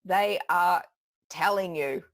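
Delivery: deliberate, punched words with pauses; mock commanding inflection. Imitating men who intimidate an audience, mock commanding delivery. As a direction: lay it down like an order. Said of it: "makes it sound like a command".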